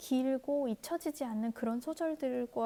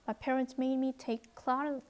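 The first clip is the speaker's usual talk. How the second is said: very slow, deliberate English read-aloud; much slower than usual. Shown as a demonstration. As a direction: read each word slowly for learners. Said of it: "reads the English text slowly".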